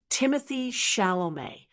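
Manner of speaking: "Timothée Chalamet" modelled as "TIM-uh-thee SHAL-oh-may"; model pronunciation. Shown as a demonstration. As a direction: say "Timothée Chalamet" for learners to repeat. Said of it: "Try it with me".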